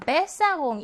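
Besserung with BES stressed; first-syllable stress. Shown as a demonstration. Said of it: "일 음절 강세어이고요".

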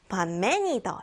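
반매니더 in Gyeongsang tune; dialect intonation. Shown as a demonstration. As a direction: sing the pitch of 반매니더. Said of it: "이렇게 소리의 높낮이의 변화가". (경상도 억양으로)

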